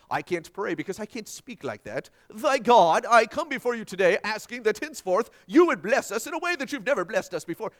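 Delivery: put-on lofty, formal old-style prayer voice, lightly done; mock King James prayer. Preacher mocking people who pray in lofty words, lightly hammed-up King James tone. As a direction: poke fun at flowery prayer language. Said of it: "the King James Version of the King James Version".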